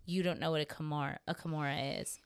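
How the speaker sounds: quick, tripping over "kimura" and repeating "a kimura"; fumbled line. Retold or imitated. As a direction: stumble on the word "kimura", then restart it. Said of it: "I can't even say it now".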